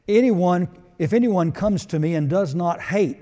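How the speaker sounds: loud, forceful scripture reading; emphatic reading. Acted. Preacher reading verse to congregation, forceful. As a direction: read the verse like a hammer.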